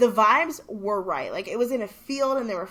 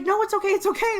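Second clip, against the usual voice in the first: polite refusal; 12 semitones higher, 5 dB louder than usual. Retold or imitated. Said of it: "She's like".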